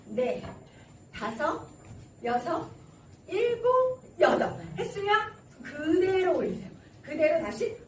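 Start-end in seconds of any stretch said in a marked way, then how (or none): none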